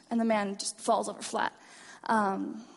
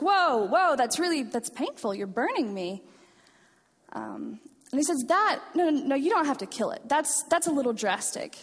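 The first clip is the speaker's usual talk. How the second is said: mock panic; 4 semitones higher than usual. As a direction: backpedal in a hurry as the hand burns. Ghost panics at burning hand.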